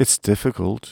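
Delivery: ordinary delivery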